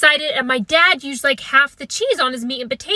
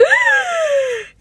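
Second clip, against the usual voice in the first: dramatic gasp. Retold or imitated. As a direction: gasp as if the cans are an outrage. Horrified at canned vegetables.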